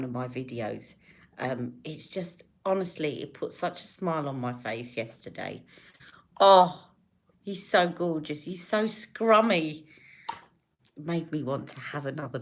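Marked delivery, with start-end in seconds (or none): 6.4-9.8 gushing. Real, not acted. Gushing over baby.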